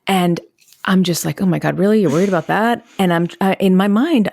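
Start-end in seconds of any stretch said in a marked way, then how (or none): 1.4-2.8 mildly incredulous parent, brushing off the worry; dismissive. Retold or imitated. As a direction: act out a parent's mild exasperated disbelief. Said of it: "I'm being dismissive".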